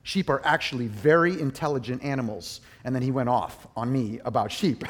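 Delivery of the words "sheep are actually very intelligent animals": a hint of a stern shepherd setting him straight. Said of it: "he just very sternly said".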